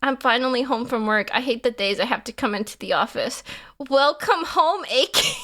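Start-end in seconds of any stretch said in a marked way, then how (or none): 3.9-5.3 high catgirl welcome; cute greeting. Pretend. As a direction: greet them in a lightly put-on cute voice.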